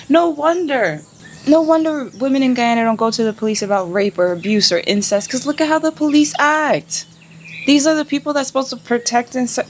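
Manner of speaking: real outrage, rising pitch; outraged rant. Real, not acted. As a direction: fume at the police. Ranting about police harassment.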